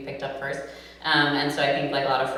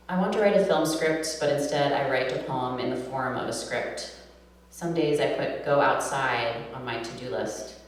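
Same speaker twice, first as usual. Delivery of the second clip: measured, deliberate poem reading; poetry reading; 4 dB louder than usual. Acted. Poet reads her poem to a live audience, measured reading voice.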